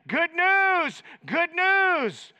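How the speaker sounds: high, loud triumphant shout; ringing cry of good news; messenger yelling. Retold or imitated. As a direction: call it out like a runner bringing victory. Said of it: "they'd be yelling".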